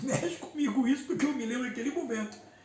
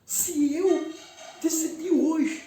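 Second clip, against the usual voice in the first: choked-up, pleading, higher-pitched retelling; tearful plea; 5 semitones higher than usual. Retold or imitated. Begging brother César for communion, choked up with tears. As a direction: relive the tearful plea half-voiced. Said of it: "ainda chorando, engasgado".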